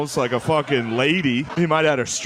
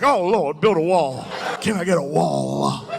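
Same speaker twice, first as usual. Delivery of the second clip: mock spirit-filled dad; 3 semitones higher than usual. Dad caught by the Holy Spirit watching the news, hammed-up fervent. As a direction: call out like hit by the Holy Ghost. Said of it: "He's just like".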